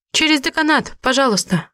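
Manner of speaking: high, tense hiss. A narrator's reading. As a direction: spit it through the teeth. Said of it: "прошипела я".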